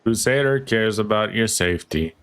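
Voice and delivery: flat deadpan imitation of the announcer. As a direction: say it with zero emotion. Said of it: "With the most deadpan voice ever".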